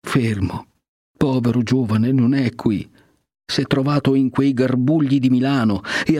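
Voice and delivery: a hint of tears, voice lifted and wavering; lightly sobbing. Mild tearful plea about Fermo to the cardinal. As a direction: Lucia answers the cardinal through restrained sobs. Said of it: "Lucia, singhiozzando, rispose".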